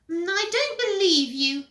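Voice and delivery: put-on high, loud child voice; whiny little brother. Peter catching Henry in his room, high whine. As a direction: pipe up in a high brat voice.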